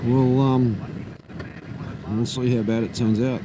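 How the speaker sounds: muffled under roaring wind; talking inside a motorcycle helmet. Real, not acted. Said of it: "I can hear a hell of a lot of wind noise in my helmet".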